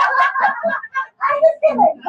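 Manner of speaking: loud giggly take-back; laughing. Real, not acted. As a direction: say it while still cracking up. Laughing after the joke.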